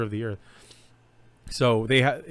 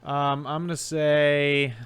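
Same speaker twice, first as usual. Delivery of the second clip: dramatic announcement; 4 semitones higher, slower than usual. Acted. Dramatic answer buildup again.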